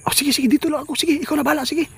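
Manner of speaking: excited shouting. Real, not acted. Excited talk to game character.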